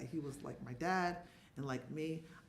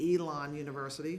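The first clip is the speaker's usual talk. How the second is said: a mock cheer for her team, a bit louder; cheering from the stands in play; proud sports mom calling out the team name; 5 dB louder than usual. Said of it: "You're the loud mom".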